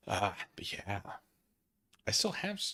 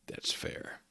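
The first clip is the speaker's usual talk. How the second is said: whisper; 9 dB quieter than usual. Real, not acted. Whispered aside.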